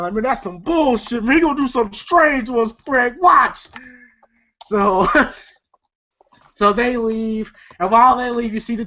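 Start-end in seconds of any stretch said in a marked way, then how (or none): 0.1-3.7 whiny imitation of a grumble, rising at the end; mock complaining. Film fan imitating Day Day complaining to Craig, mock grumble. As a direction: complain to a buddy, building to a high warning. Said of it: "Day Day complaining".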